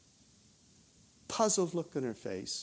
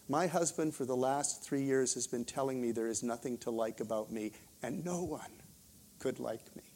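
low, soft retelling of her confession; hushed confession; 4 semitones lower, 7 dB quieter than usual. Retold or imitated. Woman confides to minister about her husband, hushed confession. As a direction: lower the voice and let it sink quieter to the end.

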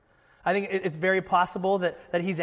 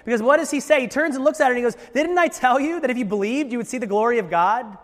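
fervent preaching; 5 semitones higher, 6 dB louder than usual. Acted. Preaching Jesus' rebuke at full force.

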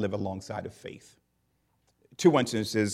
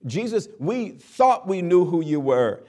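higher and louder, in wide-eyed awe; astonished disciples; 7 semitones higher, 6 dB louder than usual. Acted. Disciples stunned that Jesus calmed the sea, higher and louder. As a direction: blurt it out in stunned wonder.

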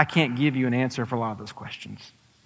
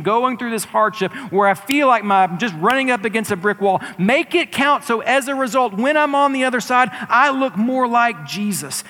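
fervent prayer; 7 semitones higher, 4 dB louder than usual. Pretend. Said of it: "what if we pray".

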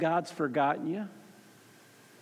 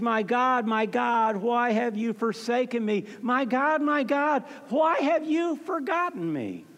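higher-pitched cry, only slightly louder; retold loud cry; 5 semitones higher than usual. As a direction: retell an anguished cry to God, rising in pitch. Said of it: "cried out in a loud voice".

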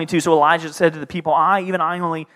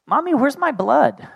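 put-on much higher, innocent toddler voice; little child; 11 semitones higher than usual. Son asking mommy about his blood, small child voice. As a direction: ask it like a puzzled three-year-old. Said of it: "And he's like".

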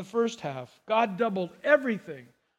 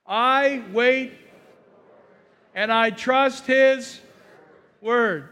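congregation reading; 4 dB louder, much slower than usual. Shown as a demonstration. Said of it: "Let's read it together".

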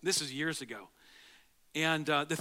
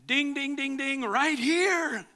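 higher, louder, slow ding ding; excited emphasis; 6 semitones higher, 4 dB louder, much slower than usual. Real, not acted. Pastor drives the point home to the congregation, excited. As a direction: ring it out like a bell. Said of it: "excited punchline".

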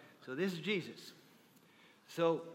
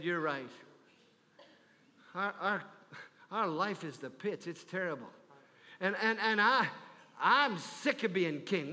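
weary king; 3 semitones lower than usual. Acted. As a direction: let the weariness sink in. King confesses misery.

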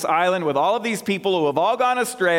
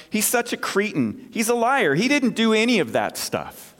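exasperated owner; 6 semitones higher than usual. Acted. Owner's punchline in joke.

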